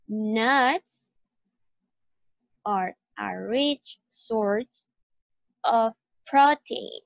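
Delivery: teacher underlines stressed words with students, slow and stressed; slow, word by word, key words hit. Shown as a demonstration. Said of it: "las vamos a ir subrayando".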